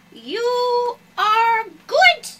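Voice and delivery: stretched, sing-song soothing words; slow drawn-out praise. Real, not acted. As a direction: draw it out, slow and sweet. Praising bird slowly.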